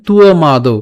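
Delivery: তুও মা দৌ, tu-o then long maa-dou; model pronunciation. Shown as a demonstration. Teacher models the phrase, তুও মা দৌ syllable by syllable. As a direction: sound out তুও, then draw out মা দৌ. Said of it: "উচ্চারণটা কেমন হচ্ছে?".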